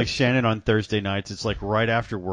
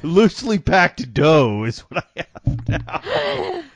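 mock self-pity; 6 semitones higher, 4 dB louder, slower than usual. Joking about his dad bod.

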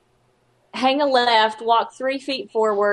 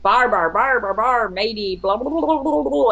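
mumbling skeleton. Retold or imitated. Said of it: "you don't know what he's saying".

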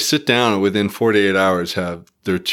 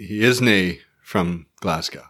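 light Scottish turn of phrase, slow; a hint of a Scottish accent; 4 semitones lower than usual. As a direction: slip lightly into Glaswegian Scots, unhurried. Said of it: "what would they say?".

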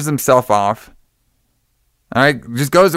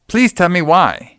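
slow, higher mock-dramatic pleading; mock plea; 4 semitones higher, slower than usual. Stabbed heroine begging the killer, mock-pleading. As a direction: beg for an answer, hammed up.

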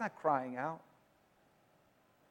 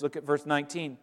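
usual speaking voice

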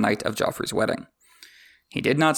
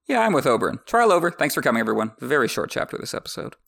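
joking wrap-up; 3 semitones higher than usual. Real, not acted. Host mock-ending the trial for listeners, playful. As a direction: wave everyone off as if the show has ended.

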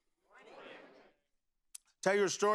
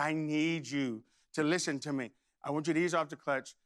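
lower, measured fatherly appeal, lightly acted; strained patience; 4 semitones lower than usual. Father needs son to listen, strained patience. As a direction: imitate a dad holding onto patience.

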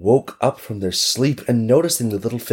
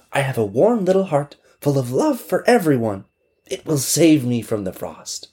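put-on little girl; 6 semitones higher than usual. Girl voiced.

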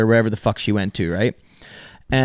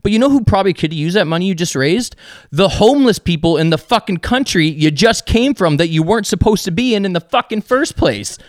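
higher-pitched, emphatic retold tirade; retold rant; 5 semitones higher than usual. Podcaster retelling her tirade over the cat fundraiser, ranting. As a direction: rant indignantly, piling up the points. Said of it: "so I just go on a rant".

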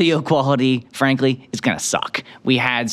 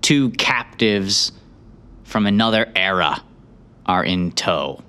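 game master recap. A narrator's reading. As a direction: set the scene like a storyteller.

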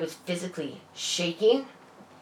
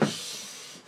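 a soft unvoiced shush; 9 dB quieter than usual. Boyfriend shushing her in the waiting room, whispered. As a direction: hush her without voice.

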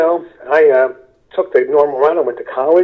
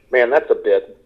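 spot the joke in something awful and chuckle; chuckling comedian's take. Shown as a demonstration. Comedian seeing a bit in horror, chuckling. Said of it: "I say comedians have a sense of humor".

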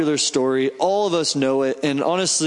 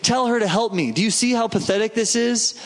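higher-pitched, exasperated pleading; mock angry; 5 semitones higher than usual. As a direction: act out an aggrieved sister demanding backup. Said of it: "and she's angry".

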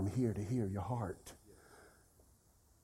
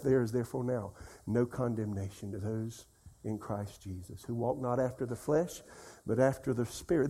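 low, softer recital of scripture; repeated meditation; 4 semitones lower, 6 dB quieter than usual. Shown as a demonstration. Preacher shows how to keep saying the verse, low meditative recitation. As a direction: say the verse over to yourself, quietly. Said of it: "So just keep saying".

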